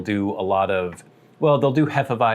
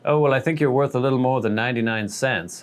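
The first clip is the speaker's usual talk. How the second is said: folksy joke; 3 semitones higher than usual. Retold or imitated. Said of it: "me trying to be, like, folksy".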